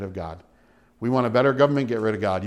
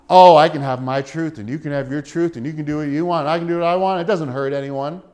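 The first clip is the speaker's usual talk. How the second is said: mocking relativist voice; 4 dB louder than usual. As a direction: parrot their easy excuse with scorn. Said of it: "They've had this vain thought".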